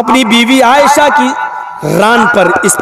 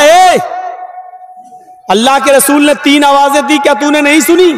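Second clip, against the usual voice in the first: scolding; 2 semitones higher than usual. Acted. Wife confronting the servant who ignored three calls, scolding.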